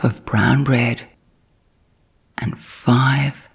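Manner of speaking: measured storybook reading with long pauses between phrases; bedtime story narration. A narrator's reading. Narrator reading The Tale of Peter Rabbit as a sleep story, gentle storytelling. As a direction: tell it unhurriedly, leaving room to drift off.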